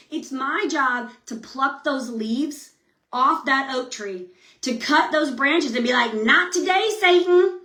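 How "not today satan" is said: higher-pitched rebuff; playful defiance. Acted. Woman cutting down branches of doubt, playfully defiant. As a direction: send the devil packing. Acted defiance toward Satan.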